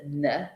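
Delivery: "n" said as its sound, a short "nuh"; letter sound demo. Shown as a demonstration. Teacher showing nasal consonants, "n" sounded as "nuh". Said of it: "the N G sound".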